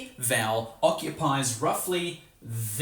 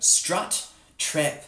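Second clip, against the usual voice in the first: New Zealand vowels; 3 semitones higher, much slower than usual. Shown as a demonstration. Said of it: "So we ended up with".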